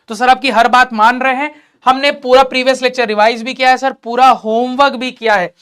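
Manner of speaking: lightly acted earnest pupil, pressing each claim; keen student. Sincere student assuring the teacher of homework done, lightly acted and eager. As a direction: plead your case like a diligent student.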